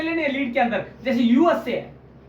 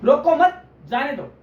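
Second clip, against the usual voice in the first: group "रोको मत" together, then drop onto "जाने दो"; pause after मत; 4 dB louder than usual. Shown as a demonstration. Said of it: "मत के बाद".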